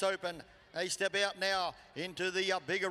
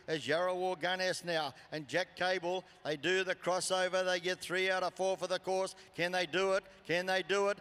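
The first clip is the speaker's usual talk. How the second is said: live play-by-play. Real, not acted. Live rodeo call builds to climax.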